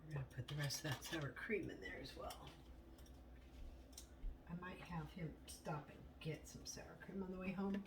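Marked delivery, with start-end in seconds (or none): 4.5-7.8 whispering. Real, not acted. Whispered aside.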